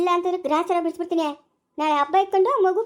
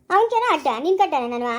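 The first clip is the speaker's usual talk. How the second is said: angry shout; 3 dB louder than usual. Acted. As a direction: yell it back at him in the fight. Heated quarrel between husband and wife. (ಜೋರಾಗಿ ಕೋಪದಿಂದ ಕೂಗುವುದು)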